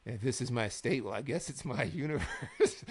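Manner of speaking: imitated monologue breaking into a laugh; mock-serious build that gives way to laughter; slow promo, cracking up. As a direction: try to stay pompous, then laugh. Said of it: "they both spoke so slowly".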